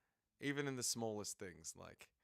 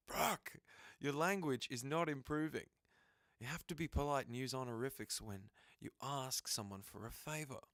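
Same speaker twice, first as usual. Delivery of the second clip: scolding prim voice; 3 semitones higher than usual. Acted. Voicing a character scolding Brooke.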